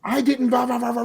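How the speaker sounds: high whiny mock of the daughter talking back. Mom mocking daughter's whiny comeback. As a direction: mimic a teen whining back at mom.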